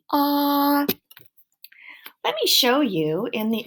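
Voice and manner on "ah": vowel demo. Shown as a demonstration. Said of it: "You are making the sound for the letter O".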